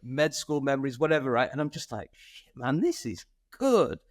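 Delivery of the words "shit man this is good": drawn-out, high-pitched awe; retold wowed reaction, slow and emphatic; impressed amazement. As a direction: stretch it out, rising high in amazement. Acting out amazed reaction to results.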